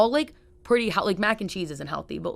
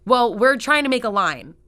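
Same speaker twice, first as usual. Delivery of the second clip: mocking the woman; 5 semitones higher, 7 dB louder than usual. Imitating the rude woman.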